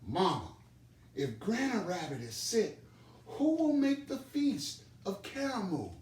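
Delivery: put-on high small child bunny voice, rising as he asks; a little one asking his mother, voice climbing high; Little Rabbit's worried question. Little Rabbit asks his busy mother, small high worried voice.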